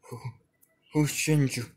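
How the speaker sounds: a high, loud yell of confusion; screaming. Acted. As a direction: cry out the question in panic. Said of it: "Naruto would be screaming".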